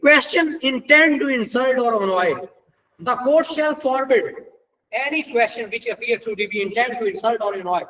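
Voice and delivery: deliberate, measured legal recitation; slow statute reading. Acted. Lecturer reads section 48 to law students, slow and deliberate. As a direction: read the law out slowly, word by word.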